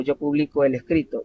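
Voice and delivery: "publico" stressed on BLI; pu-BLI-co, present tense; stress on middle syllable. Shown as a demonstration. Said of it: "la tiene en medio".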